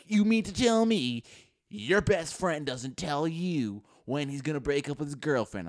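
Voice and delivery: high, slow mock disbelief; incredulous crowd. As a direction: imitate accusing classmates, words stretched out. Swarm of classmates confronts him.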